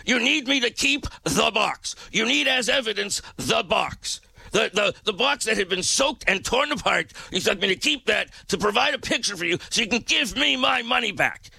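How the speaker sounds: high, indignant and fed up; retold fuming reply about the box; fuming disbelief. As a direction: steam coming out of your ears. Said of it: "steam blew out every orifice I had".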